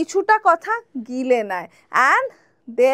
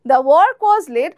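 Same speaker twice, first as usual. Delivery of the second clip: very slow, clear classroom read; slow, careful teacher example; slow example sentence; much slower than usual. Shown as a demonstration. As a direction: spell it out slowly for learners. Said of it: "আর কি আছে?".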